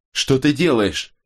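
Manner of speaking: high, drawn-out shocked question; appalled question with the voice lifted; gasped. A narrator's reading. Robin sees him pulling something from the earth, gasped. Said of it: "ахнула она".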